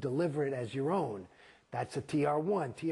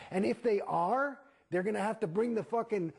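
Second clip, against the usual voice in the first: heated rant; 7 semitones higher than usual. Real, not acted. Ranting about the prices.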